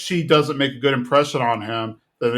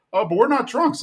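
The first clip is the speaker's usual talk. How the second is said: mild mock protest; 10 semitones higher than usual. Guys protesting, voiced high.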